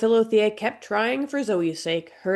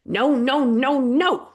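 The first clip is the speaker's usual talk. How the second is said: higher, panicked protest; a bird flapping in protest, voice pitched up; frantic exclaiming; 7 semitones higher, 4 dB louder, slower than usual. A narrator's reading. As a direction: squawk it out in alarm. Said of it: "Zoe exclaimed".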